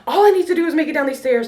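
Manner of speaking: urgent self-pep talk, pushed up and loud; psyching up. Retold or imitated. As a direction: hype yourself up to run the stairs. Psyching herself up on stairs.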